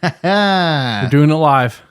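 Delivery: Bill O'Reilly rant. Shown as a demonstration. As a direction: bellow it like an angry TV host. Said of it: "live sign-off catchphrase".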